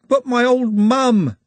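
high, loud, drawn-out wail; weeping. A narrator's reading. Trev protests to Glenda as the crowd chants, weeping wail. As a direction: wail it slowly like a tearful protest. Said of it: "Trev wept".

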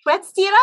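"Schwetztira" high and quick, rising as a question; unsure question. Shown as a demonstration. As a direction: try out "Schwetztira" tentatively, asking if it's right. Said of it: "Did I say that right?".

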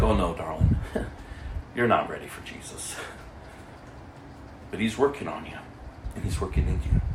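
calm her down like a loving aunt; tender reassurance. Retold or imitated. Tender reply to a doubting woman.

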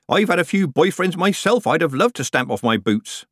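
high-pitched, gleefully teasing witch; Nanny Ogg, shameless. A narrator's reading. Nanny teasing Tiffany about Lover Boy, shameless.

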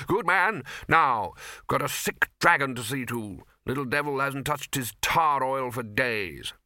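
lightly voiced hearty master; blustering Arch-Chancellor. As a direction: dismiss a subordinate with hearty bluster. Arch-Chancellor briskly dismisses bursar.

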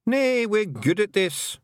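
high, rough Scottish little man murmuring in awe; a wee Scots Feegle marvelling at writing. A narrator's reading. Feegles watching Tiffany write, awed Scots murmur.

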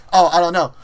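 mock shrug while laughing; laughing through it. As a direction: toss it off, laughing. Louis shrugs, teller laughing.

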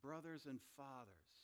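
mildly warm, respectful address. Acted. Paul addressing his own people before his defense, warm and respectful. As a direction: address them gently, with respect. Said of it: "it's warm, it's respectful".

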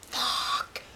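drawn-out yell leaping up high; retold all-out yell. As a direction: re-enact screaming it with everything you have. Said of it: "as loud as I could".

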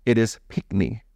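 pickney said PICK-nee, short i, no k before the n; Jamaican word pickney. Shown as a demonstration. Jamaican husband teaching his wife the word pickney. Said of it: "what it looks like phonetically".

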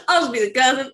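playful hillbilly accent imitation; redneck cousin. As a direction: echo it in a hammed-up redneck twang. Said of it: "He's just gonna be a redneck cousin".

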